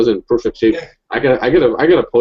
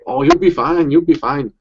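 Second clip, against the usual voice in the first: imitating the doctor's Asian accent, higher; a hammed-up accent impression of the doctor, pitched up; mock Asian accent; 6 semitones higher, 3 dB louder, slower than usual. Telling how the Asian doctor talked, in a mocking accent. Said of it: "they got that accent and everything".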